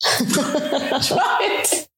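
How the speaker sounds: high, muffled imitation through toffee; imitated mouthful. Boyfriend urging her to taste it, mouth full of toffee. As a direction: mimic talking with a full mouth. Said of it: "Keith has this mouthful of toffee".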